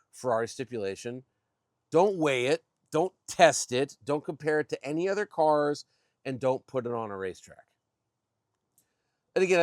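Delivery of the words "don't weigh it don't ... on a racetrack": each retold "don't" punched louder and higher; emphatic retold rules. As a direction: list the quoted prohibitions one by one, with emphasis. Quoting Ferrari's list of forbidden things.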